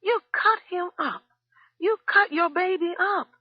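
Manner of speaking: very high, loud accusing screams; shouting. A narrator's reading. Cook accusing the wife before others, high shouting. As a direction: hurl the accusation. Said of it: "still shouting".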